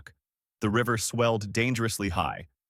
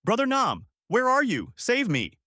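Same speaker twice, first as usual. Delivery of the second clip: very high desperate plea; crying out; 13 semitones higher, 3 dB louder than usual. A narrator's reading. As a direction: cry for help at the top of the range. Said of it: "crying out".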